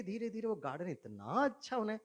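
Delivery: normal talking voice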